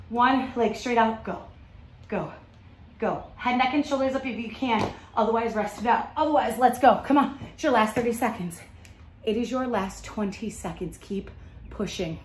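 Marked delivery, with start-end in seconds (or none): 6.2-8.6 halftime pep speech. Real, not acted. Trainer pushing class to finish.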